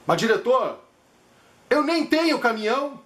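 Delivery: a hint of the confused patient; patient's reply. Patient replies to director.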